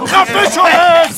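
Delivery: snapping hard at a panicking soldier; angry shout. Acted. Officer silencing a soldier who begs for help, angry shout. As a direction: cut him off with a yell.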